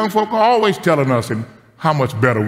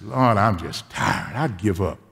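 weary and discouraged; 4 semitones lower, 4 dB quieter, slower than usual. Retold or imitated. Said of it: "I had gotten a little depressed".

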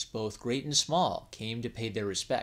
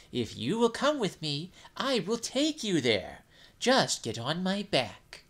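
persuasive jellyfish. Acted. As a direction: lure the monkey with sweet promises. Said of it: "So the jellyfish said".

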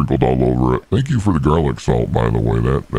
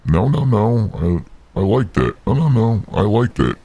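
high protest; 7 semitones higher than usual. Acted. Devil protests being cut off.

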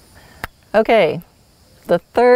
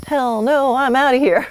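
lightly voiced horse, higher pitch; a hint of a horse balking, pitched up; horse refusing outright; 6 semitones higher than usual. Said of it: "your horse could go".

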